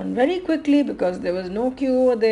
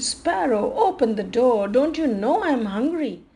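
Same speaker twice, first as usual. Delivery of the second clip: mild impatient crow; 4 semitones higher than usual. Acted. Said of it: "He knocked three to four times and said".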